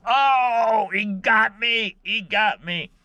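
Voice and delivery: hammed-up high panicked yelp; imitating panicked yelp. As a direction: squeal like the hook just went in. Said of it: "And he goes".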